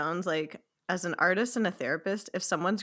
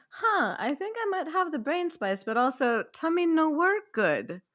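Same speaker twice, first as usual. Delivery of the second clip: 1 dopey client voice; 7 semitones higher, slower than usual. Retold or imitated. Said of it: "people are like".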